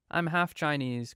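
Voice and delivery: plain reading voice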